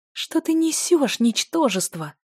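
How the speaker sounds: scornful furious retort; angry hissing. A narrator's reading. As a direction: hiss the insult at him. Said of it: "зашипела на него Дель".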